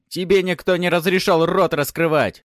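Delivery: громкий злой крик, выше; отчитать пленника криком; злой окрик. A narrator's reading. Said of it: "рявкнул тот же мужик". (бандит яростно орёт на героя)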